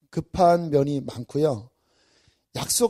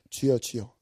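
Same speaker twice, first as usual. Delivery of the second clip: soft prayer; 7 semitones lower, 7 dB quieter than usual. Shown as a demonstration. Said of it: "이게 육신이구나 할 때".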